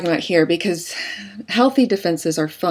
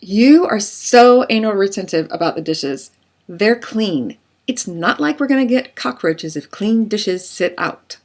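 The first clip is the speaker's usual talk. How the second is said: personal attack; 3 semitones higher than usual. Acted. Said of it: "a personal attack".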